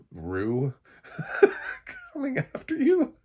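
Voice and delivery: words squeezed out through a laugh; giggling at the silly idea. Real, not acted. Laughing while telling viewers about the zombie wolf.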